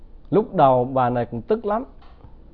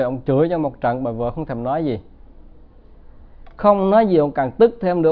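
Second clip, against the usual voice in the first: usual speaking voice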